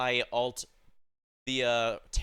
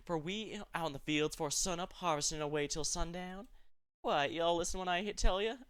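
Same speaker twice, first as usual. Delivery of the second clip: put-on higher-pitched voices with a Southern country accent; Southern country family voices; 6 semitones higher than usual. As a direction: play the homey country family catching up on the phone. Country family phone call voices.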